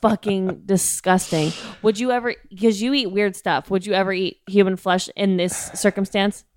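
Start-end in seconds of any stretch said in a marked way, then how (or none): 0.0-1.5 laughing disgust. Real, not acted.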